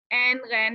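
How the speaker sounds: ऐन गैन as "en, ghen", no glide; one short vowel in each of ऐन गैन; wrong Urdu reading. Shown as a demonstration. Teacher repeating the warning, Urdu-style vowels. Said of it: "नहीं पढ़ना".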